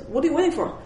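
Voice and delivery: a lightly voiced kid in wonder. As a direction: play the awestruck little boy. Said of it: "He goes".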